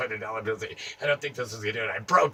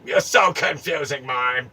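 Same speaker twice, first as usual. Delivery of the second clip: louder repeat; 7 dB louder than usual. Shown as a demonstration. Taunting the mime again, "You're so confusing" much louder.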